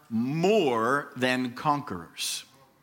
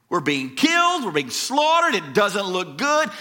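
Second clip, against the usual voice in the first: acted despair; 2 semitones higher than usual. Preacher voices Paul's suffering, despairing. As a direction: cry out in mild anguish, pitch swinging up. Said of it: "you hear the despair in Paul's voice".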